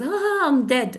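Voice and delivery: mildly amused, lifted "ah"; laughing too much. Shown as a demonstration. Teacher shows the laughing phrase, mildly amused. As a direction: act lightly overcome with amusement. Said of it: "if you're laughing too much".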